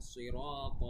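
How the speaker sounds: "সিরাত" with a heavy, dark s, "রা" held; heavy sad. Shown as a demonstration. Teacher modelling the letter sad, heavy s in "সিরাত". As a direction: thicken the s at the start of "সিরাত". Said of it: "সদের উচ্চারণ".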